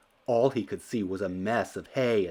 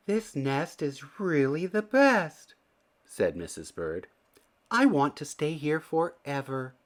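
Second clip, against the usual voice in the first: delighted Missus Bird; 6 semitones higher than usual. A narrator's reading.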